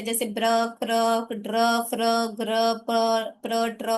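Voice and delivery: ब्र, क्र, ड्र, फ्र each said slowly as one joined sound; sounding out blends. Shown as a demonstration. Teacher models r-blends ब्र, क्र for parents, slow joined sounds. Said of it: "आर वाले blends है".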